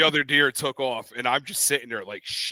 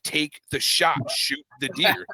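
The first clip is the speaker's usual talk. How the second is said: higher, emphatic retold order; insistent urging, pitched up; arguing insistently; 4 semitones higher, slower than usual. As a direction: press the point in a mock argument. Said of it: "we sat there and argued".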